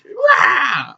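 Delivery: high, short imitated shriek of rage; mock roar. Woman answering the hat seller's blessing, mock roar. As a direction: let out a mock wordless yell. Retold woman's outburst in quarrel.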